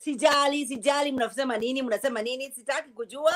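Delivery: dismissive Swahili brush-off; not caring. Shown as a demonstration. Asked to not care in native tongue, dismissive. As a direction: shrug it off in Swahili. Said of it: "Tell us you don't care in your native tongue".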